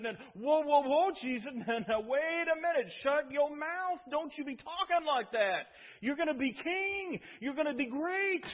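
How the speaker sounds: a burly fisherman pleading, lightly Southern; good old Southern boy. Acted. Peter pleading with Jesus to stop, loud and high. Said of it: "picture of Peter as a good old Southern boy".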